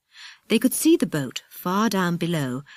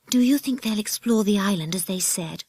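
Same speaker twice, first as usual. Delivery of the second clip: slightly raised, anxious question; 4 semitones higher than usual. Acted. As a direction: ask with a touch of worry. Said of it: "asked Peggy anxiously".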